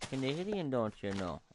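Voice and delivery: mock Canadian, pitch lifted on Canadian; hammed-up Canadian accent. Gamer playing up a Canadian accent for laughs. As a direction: lay the Canadian accent on thick, teasing. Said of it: "why am I talking like a".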